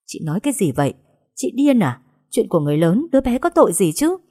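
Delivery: rising, indignant cry; shocked protest. Acted. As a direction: defend the unborn child. Heroine confronts villain in shock. (tôi phẫn nộ cãi lại)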